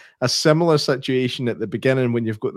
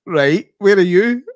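calling out on phone; 6 semitones higher, 5 dB louder, slower than usual. Retold or imitated.

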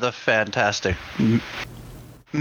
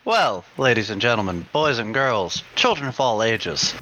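ringmaster; 4 semitones lower than usual. Acted. Circus-style intro to the audience.

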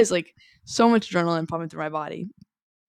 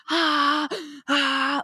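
imitated scared yelps; 8 semitones higher than usual. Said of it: "like that".

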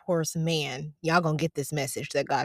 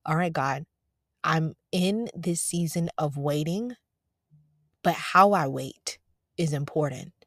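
calm, humble prayerful tone; patient and humble. Retold or imitated. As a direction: speak it like a willing servant. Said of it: "It should be like a waiter".

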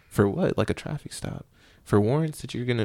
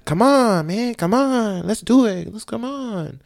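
high, loud and drawn-out pump-up call; rally the squad like the usual fired-up Cardona; partner's usual hype voice, imitated; hyped-up partner; 12 semitones higher, 4 dB louder, slower than usual. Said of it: "'cause usually you're like".

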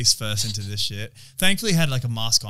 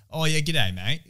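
put-on broad Australian greeting, slightly higher; really Aussie accent; 4 semitones higher, slower than usual. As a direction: lay on a fake Australian accent. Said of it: "Like a really Aussie accent".

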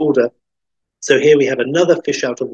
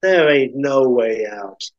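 slow, drawn-out Midwestern waitress; slow rural American drawl; slower than usual. Acted. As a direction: draw it out ominously. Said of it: "And Darlene says".

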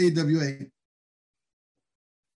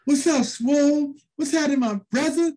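Curt Hennig in an afro wig; 10 semitones higher, 4 dB louder than usual. Retold or imitated. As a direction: stretch it out, playing a hip cool cat. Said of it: "he came there with a big afro".

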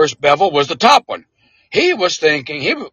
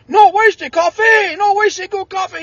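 put-on Cajun accent. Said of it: "well, he was a Cajun".

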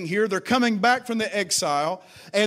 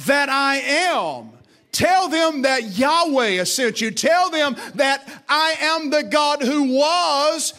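voicing God; 4 semitones higher, slower than usual. God's voice quoted, slow, raised.

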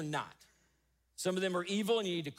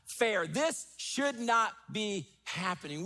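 raised, slow cry of protest to God; David's lament; 3 semitones higher than usual. Retold or imitated. David crying out to God in the Psalms, raised lament. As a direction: call out to God like David in anguish. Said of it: "David crying out and saying".

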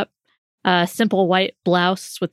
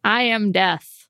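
slow, solemn Death declaring itself; grim reaper voice; 4 semitones higher, slower than usual. Acted. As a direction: speak as Death personified, slowly. Declares herself Death, in character.

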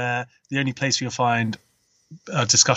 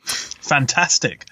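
slow, drawn-out disbelieving echo; incredulous; much slower than usual. Real, not acted. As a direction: repeat the word in disbelief. Incredulous echo of other's praise.

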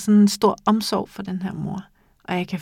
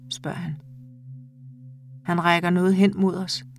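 measured, intimate reading of a short story; calm audiobook narration with lightly voiced dialogue. A narrator's reading. Reads a short story aloud.

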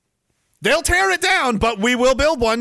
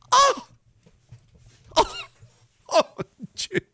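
mock surprise. Mock shock at chat insult.

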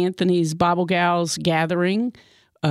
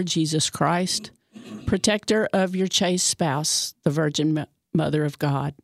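prayer; 2 semitones lower than usual. Real, not acted. Leads prayer to Saint Joseph.

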